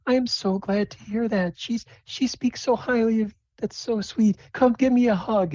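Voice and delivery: high falsetto welcoming mother; gushing Phyllis. Acted. Mother greets her daughter's best friend, gushing high voice. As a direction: coo delightedly, pitched well up. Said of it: "And Phyllis like".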